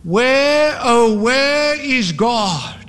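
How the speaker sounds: high, drawn-out wail; anguished, long-held high cry. A narrator's reading. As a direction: wail it slowly into an empty night. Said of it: "he wailed into the nebulous night".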